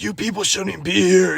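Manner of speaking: high, drawn-out mock rant; imitated freak-out. Storyteller as dump owner telling the family off, high mock outrage. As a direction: exaggerate the outraged man's complaint. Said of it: "he's, like, freaking out".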